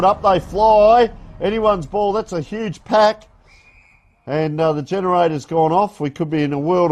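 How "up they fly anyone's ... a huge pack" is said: excited call. Real, not acted. Contest for a high ball.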